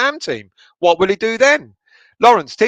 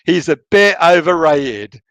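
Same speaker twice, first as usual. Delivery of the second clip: amused reread; 4 dB louder, slower than usual. Real, not acted. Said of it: "it made me laugh".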